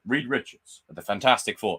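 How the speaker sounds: imitating a grand announcement, laughing; hammed-up heroic intro line; mock announcer. Mocking the movie's cameo intro, hammed-up announcer. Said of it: "brought in for two seconds to go".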